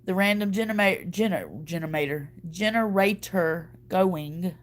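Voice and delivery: trips over "generator", restarting it several times, the last take slowed down; fumbling "genema-", "gener-" before landing on "generator going"; stumbling over a word. Real, not acted. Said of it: "Y'all, I can't talk".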